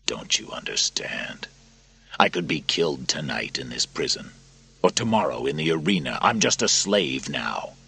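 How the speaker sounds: Maximus despairing; exasperated prisoner. Acted. Narrator voices Maximus.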